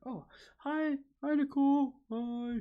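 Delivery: loud, high squealed hello; light up and call out hi; excited greeting. Real, not acted. Greeting viewer who joined.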